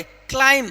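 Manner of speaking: "क्लाइम" ending on m, no b; silent b. Shown as a demonstration. Teacher drills students on the rule, silent b in "क्लाइम". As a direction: say "क्लाइम" with the final b left unspoken. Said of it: "यहाँ पर बी को नहीं पढ़ेंगे".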